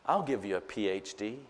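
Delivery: slow, mock-menacing punchline; lightly voiced wife delivering a threat; wife's deadpan threat. Pastor quoting his wife's teasing threat, slow and deadpan. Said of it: "She goes".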